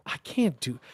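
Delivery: ordinary talk, nothing marked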